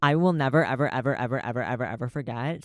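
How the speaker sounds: insistent repeated ever, fading down; emphatic vow. Real, not acted. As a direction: hammer home that you will never forget. Vowing never to forget.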